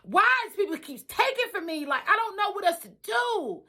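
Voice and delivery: rising, pleading, close to tears; upset protest. Retold or imitated. Telling her friend she's been wronged, upset. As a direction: plead that everyone keeps stealing. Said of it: "I said".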